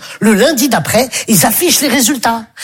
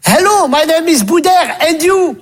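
higher, stilted schoolkid English; school English recital; 5 semitones higher than usual. Retold or imitated. Pupil reciting the English dialogue to a classmate.

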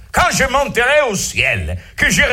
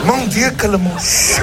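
mock dismay. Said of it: "Mais non, je plaisante".

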